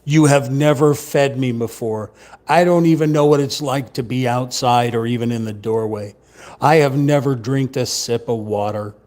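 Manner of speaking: mock yell like an outraged, demanding pet; Sammy's yelling complaint. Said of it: "Sammy yells and screams and says".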